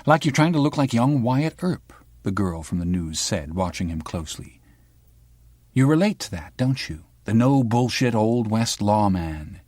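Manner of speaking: a hint of a sharp young reporter; the girl from the news. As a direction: probe him like a pushy journalist.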